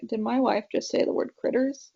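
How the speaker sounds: a mock half-shouted retold dad; incredulous exclamation in dad's voice; dad hearing his wife say a Southern word; disbelieving. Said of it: "And he was like".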